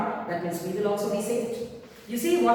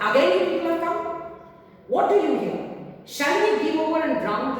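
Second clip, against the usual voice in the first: annoyed boatswain; 6 semitones higher than usual. Acted.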